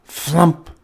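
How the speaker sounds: sudden landing thud word, punched; flump. A narrator's reading. Sound of landing in story.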